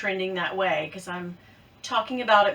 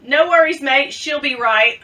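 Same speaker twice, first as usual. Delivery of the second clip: loud, amateur Aussie accent; attempted Australian accent; 3 semitones higher, 6 dB louder than usual. Shown as a demonstration. Vlogger trying out looked-up phrases, put-on Australian accent. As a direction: try it in Australian, loudly. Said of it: "some Australian phrases".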